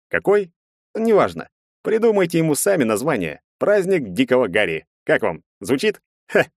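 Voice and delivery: a tipsy reveler praising parties. A narrator's reading. Tipsy Nikita's long rant.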